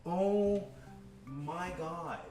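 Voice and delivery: high, loud gasps of delight, stretched slowly; overwhelmed with joy at the fresh pretzels; in awe. Real, not acted. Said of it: "I'm in awe".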